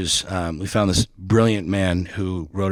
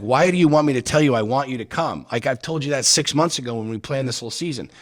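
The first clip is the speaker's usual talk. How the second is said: exasperated; 4 semitones higher than usual. Retold or imitated. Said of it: "I'm like".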